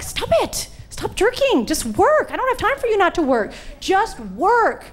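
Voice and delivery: mock scolding. Scolding her own aching arm.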